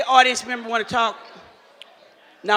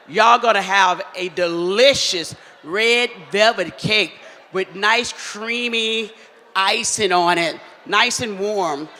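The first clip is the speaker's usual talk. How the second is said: savoring description; slower than usual. Real, not acted. Describing dessert enticingly.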